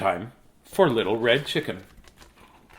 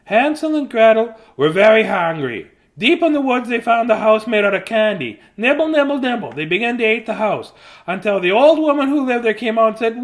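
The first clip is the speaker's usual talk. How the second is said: higher, lively story reading; reading to children; 8 semitones higher, 5 dB louder than usual. Acted. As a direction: read it out like a bedtime tale. Papa reads fairy tale.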